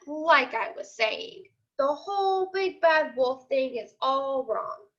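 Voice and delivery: storybook read-aloud as the wolf narrating; lightly voiced wolf telling his side to the class; reading a story to kids. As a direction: tell it like a sly wolf sharing a secret. Teacher reads picture book aloud.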